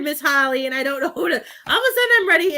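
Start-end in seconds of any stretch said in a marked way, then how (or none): 1.3-2.6 laughing while speaking. Real, not acted. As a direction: let a giggle through the words. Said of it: "ready to go take a nap".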